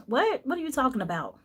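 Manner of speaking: retelling the moment she heard grandma died, in disbelief; shocked disbelief. Retold or imitated. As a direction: react as if the news just hit you. Disbelief at news of grandmother's death.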